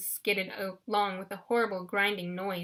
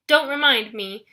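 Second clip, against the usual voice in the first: wailing; 2 semitones higher, 8 dB louder than usual. A narrator's reading. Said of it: "Wasp wailed".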